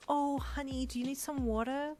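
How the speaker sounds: high, hushed concern; worried nervousness. A narrator's reading. Brian checks on the coughing listener, worried. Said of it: "with worried nervousness".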